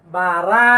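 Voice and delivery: বা রা said as a faulty vowel-added র; wrong pronunciation. Shown as a demonstration. Teacher shows students the wrong way, mock error. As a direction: show the mistake বা রা, stressed. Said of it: "এরকম যেন না হয়".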